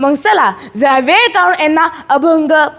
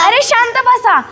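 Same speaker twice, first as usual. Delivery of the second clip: exasperated interruption; scolding; 3 semitones higher than usual. Acted. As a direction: cut the singers off sharply. Uncle cuts off the singing.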